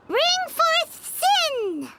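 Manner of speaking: mock incantation. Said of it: "recite the incantation in a loud voice".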